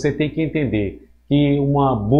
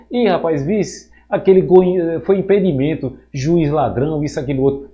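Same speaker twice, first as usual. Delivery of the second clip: higher, louder, excited chat about a bad call; casual football banter; 4 semitones higher, 4 dB louder than usual. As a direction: complain to a buddy about the referee, higher and louder. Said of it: "você fala de um jeito diferente daquela conversa com o colega".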